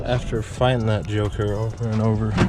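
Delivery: breathless after a struggle; out of breath. Real, not acted. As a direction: talk while catching your breath. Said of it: "Sorry, I'm so out of breath".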